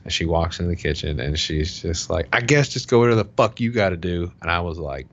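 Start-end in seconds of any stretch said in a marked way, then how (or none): 2.3-4.3 retold irritated dismissal, pitched higher; imitated annoyance. Husband imitating his wife walking into the kitchen, annoyed. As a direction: mimic a fed-up partner, mildly heated.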